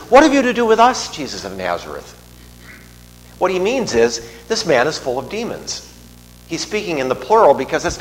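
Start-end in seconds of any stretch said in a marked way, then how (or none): 0.1-2.2 very high, loud alarmed outcry; alarmed cry. Acted. Demons caught by surprise crying out to Jesus, very high and loud. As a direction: shriek the question as the startled demons. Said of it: "and he says".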